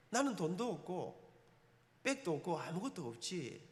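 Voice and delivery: slow, soft, low 백도 drawn out; resigned inner voice. Retold or imitated. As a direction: let it sink, slow and resigned. Inner resigned thought at door.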